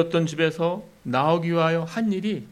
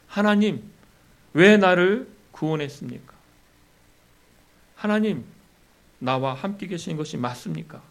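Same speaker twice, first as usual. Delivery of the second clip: higher, accusing plea; testing God; 4 semitones higher, 3 dB louder than usual. Retold or imitated. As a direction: challenge God, pitched up. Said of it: "라고 시험했기 때문입니다".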